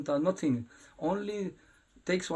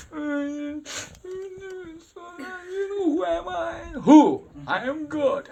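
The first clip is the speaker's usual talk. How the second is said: put-on high, loud childish voice; playful boast of a little boy; child Krishna boasting; 13 semitones higher, 7 dB louder, slower than usual. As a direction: puff up like a proud little boy.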